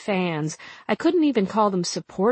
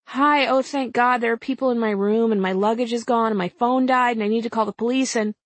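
frantic; 4 semitones higher than usual. Acted. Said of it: "frantic report to front desk".

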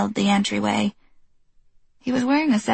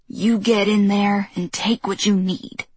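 put-on stern old woman. Old neighbor instructing firmly.

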